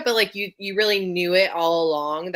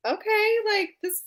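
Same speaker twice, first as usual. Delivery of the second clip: higher and slow, teasingly impressed; mock pleasant surprise; 10 semitones higher, slower than usual. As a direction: pretend to be caught off guard, amused. Retold reaction to sex scenes.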